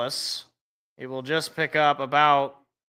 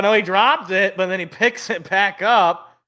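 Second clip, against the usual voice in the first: quick, louder live call; breathless excitement; 3 semitones higher, 4 dB louder than usual. Real, not acted. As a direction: call the fumble as it happens. Live call of a muffed punt.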